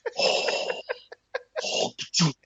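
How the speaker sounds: long voiceless puff of air; drawn-out breathy hiss ending in a spit of air; imitated noise. Miming the spacesuit trip for the pepper sauce, long breathy noise.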